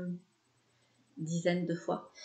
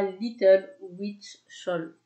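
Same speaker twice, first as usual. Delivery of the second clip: slow English words with a French accent; careful, French-accented English; accent français en anglais; 4 dB louder, much slower than usual. Real, not acted. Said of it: "mon super accent anglais". (anglais prononcé lentement avec l'accent français)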